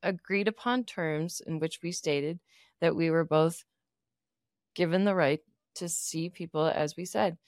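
low, measured and formal; calm therapist voice. Pretend. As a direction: answer like a calm counselor. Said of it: "let's role play this".

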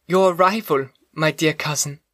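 put-on young woman voice. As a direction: voice her as a hopeful young woman. Elizabeth voiced in story.

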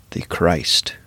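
hushed, falling whisper; whispered in awe; reverent whisper. Acted. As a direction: let the title fade into a breath. Reverent climax of the list.

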